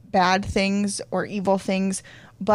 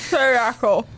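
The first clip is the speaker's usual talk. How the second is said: pterodactyl screech; 3 semitones higher, 5 dB louder than usual. Shown as a demonstration. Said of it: "make a pterodactyl noise".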